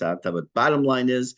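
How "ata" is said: "ata" accented at the start, A-ta; weight the first syllable of "ata"; stress on first syllable. Shown as a demonstration. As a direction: say "ata" with the final syllable unstressed. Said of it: "Here's a different reason that's".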